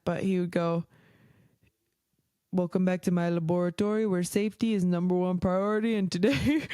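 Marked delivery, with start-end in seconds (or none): 2.5-6.7 a light, bad Russian accent, warmly hammed; butchered Russian accent. Vlogger imitating Crazy Russian Hacker's intro, light bad Russian accent. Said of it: "I'm gonna butcher this Russian accent".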